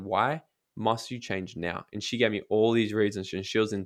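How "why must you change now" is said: slow, probing question. Retold or imitated. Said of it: "I said".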